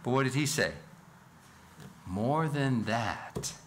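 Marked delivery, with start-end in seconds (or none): 2.1-3.5 slow emphasis. Shown as a demonstration. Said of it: "notice the emphasis here".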